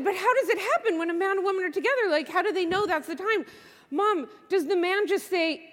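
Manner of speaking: lightly voiced inquisitive little girl; curious child. Daughter asking mom how grown-ups know it's time, lightly childlike.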